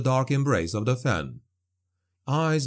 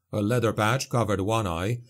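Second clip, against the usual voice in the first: plain reading voice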